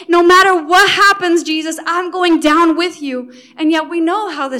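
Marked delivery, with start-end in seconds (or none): 0.1-3.3 passionate. Acted. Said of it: "so passionate about his love".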